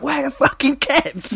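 high, mocking Cockney outburst; bad movie Cockney. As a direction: ham up the fake Cockney exasperation. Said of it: "the peak of the terrible accents".

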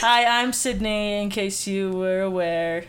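slow, glum donkey voice; Eeyore voice. Acted. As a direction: sigh it out like Eeyore. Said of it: "I sound like now Eeyore".

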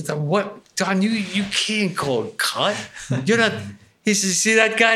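yelling at Don over the ruined take; retold shouting. Director yelling at Don Rickles.

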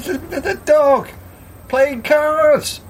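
high, stuttering disbelief; stammering astonishment. Acted. Customer points out the dog to the landlord, dumbfounded.

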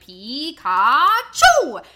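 long drawn-out game chant, bursting loud; mock kids' shout. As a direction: shout it slowly like kids playing a game. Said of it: "where they shout".

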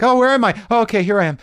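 high, loud bewildered cry; a mock jolt of lost panic; startled confusion. Tripping concertgoer waking into confusion, high and loud. Tripping, opening and closing eyes.

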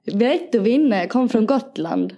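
slow, stretched Gotland dialect attempt; Gotland accent. Echoing the co-host's Keno line, Gotland accent. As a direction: try a drawling Gotland accent. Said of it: "det är gotländska".

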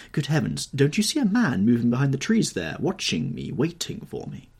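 high, loud burst of alarm; startled, nervous outcry at someone lurking; urgent, frightened exclamation. Acted. Dorian alarmed at a watcher.

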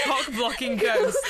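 giggling through words; laughing out loud. Real, not acted. Laughing at the joke.

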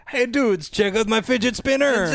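put-on botched French accent. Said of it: "Well, he's not French Canadian".

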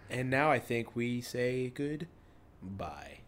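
sultry narrator. Pretend. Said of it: "With our sultry voices".

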